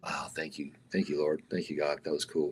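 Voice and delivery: whisper. Retold or imitated. Quiet private thanks to God.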